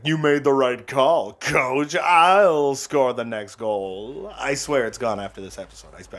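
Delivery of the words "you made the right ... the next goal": lightly voiced drawn-out hockey player; slow, hammy promise of a goal; mild mock player talking to coach; put-on player voice. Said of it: "I'll never do that voice again".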